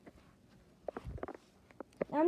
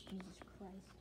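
muttered under the breath; whisper; 3 semitones lower, 15 dB quieter than usual. Real, not acted. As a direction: whisper it in exasperation. Exasperated aside under breath.

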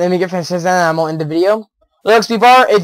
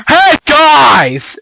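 high, loud Hey guys; screaming greeting; 8 semitones higher, 4 dB louder than usual. Retold or imitated. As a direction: call it out like yelling into the game. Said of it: "of me screaming like".

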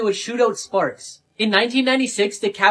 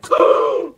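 breathy gasp; 6 dB louder than usual. Acted. Shocked reaction to joke.

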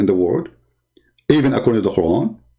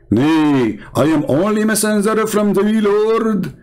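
quoting the angel; 6 semitones higher than usual. Retold or imitated. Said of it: "He said".

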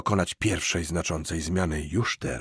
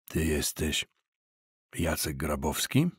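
lower, softer booming man's voice; a low, hollow boom of a big stern man; 5 semitones lower, 5 dB quieter than usual. Acted. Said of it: "zapytał tubalnym głosem". (tubalny, niski głos)

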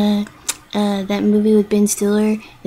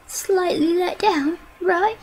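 slow and higher, stretched words; drawn out; 6 semitones higher, slower than usual. Real, not acted. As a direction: stretch each word out slowly. Repeats the phrase, drawn out.

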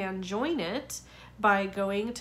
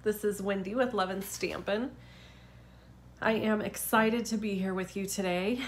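blocked nose, stuffy voice; talking through a head cold. Real, not acted. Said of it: "I sound a little stuffy".

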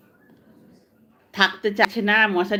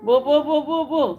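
playful cooing sounds; 5 semitones higher than usual. Real, not acted. Cooing at baby.

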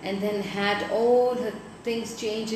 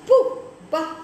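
scornful pooh-bah; 7 semitones higher, 6 dB louder than usual. Acted. Dame Click scorning Mister Shouter.

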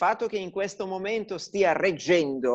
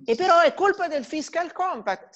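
laughing; 10 semitones higher than usual. Real, not acted. Laughing at the absurd excuse.

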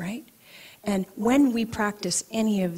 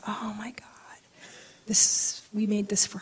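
1 tearful whisper; 2 semitones higher than usual. Retold or imitated. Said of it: "I started to cry".

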